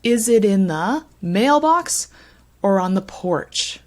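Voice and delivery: "Is it in the" linked, leading to stressed "mailbox"; linking and rhythm. Shown as a demonstration. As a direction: glide through little words, land on "mailbox" and "porch". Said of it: "we have some linking going on".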